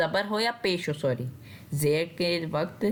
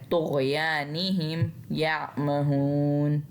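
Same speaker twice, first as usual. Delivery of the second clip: slow, drawn-out tajweed chant; Quran recitation; much slower than usual. Shown as a demonstration. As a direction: recite slowly, stretching the vowels. Quran recitation between explanations. (धीमी तजवीद वाली तिलावत)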